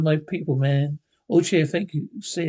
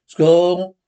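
loud gleeful whoop; excited shout; 9 dB louder than usual. Acted. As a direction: cheer it out loud. Grabbing new tickets gleefully.

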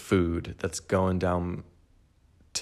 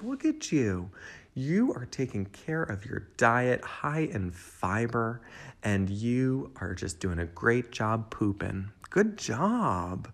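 encouraging praise; 3 semitones higher, slower than usual. Retold or imitated. Praising herself like proud parent.

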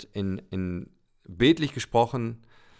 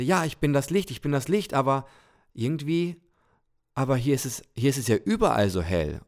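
put-on higher, restless childlike voice; a little soul, keen and puzzled; eager little soul; 4 semitones higher than usual. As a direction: wonder aloud like a curious child. Little soul speaks to God.

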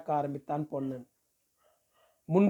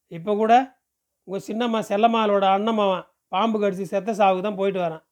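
chatty villager, lightly in character; lightly voiced village man, reassuring; 3 semitones higher, faster than usual. Man tells the girl he is her kin, mildly persuasive. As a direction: explain the family tie in lively village talk.

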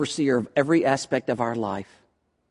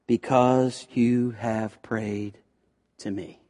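lower, softer, slow solemn words; prophet's message; 6 semitones lower, 5 dB quieter, slower than usual. Acted. Isaiah bringing God's answer to the king, low and slow. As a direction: speak as God's prophet, hushed. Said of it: "Isaiah comes and says".

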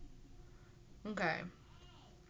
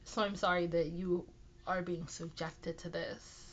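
nasal voice. Real, not acted. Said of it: "I sound super nasally".

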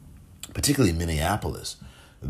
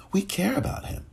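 breathy whispered echo, much higher; 13 semitones higher, 4 dB quieter than usual. Real, not acted. Podcaster echoing a victim's name, whispered. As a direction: let the words fall to a whisper.

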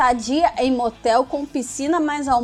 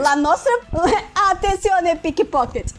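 put-on Italian accent portuguese; 3 semitones higher than usual. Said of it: "fazer o sotaque italiano".

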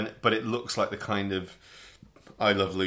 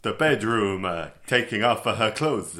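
mock Italian accent; 5 dB louder than usual. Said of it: "I really would have gone in for the".

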